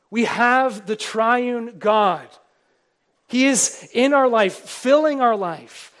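slow, loud, swelling proclamation; fervent preaching. Real, not acted. Preacher to his flock, slow and loud with fervor. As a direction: lift the church with each word.

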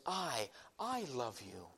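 hushed weight on "I, I love you"; stress on repeated I. Shown as a demonstration. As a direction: let the first "I" hang before "I love you". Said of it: "The emphasis is there that God says".

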